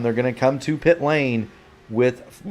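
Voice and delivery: hiccup breaking the phrase. Real, not acted. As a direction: caught by a hiccup mid-call. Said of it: "I've got the hiccups".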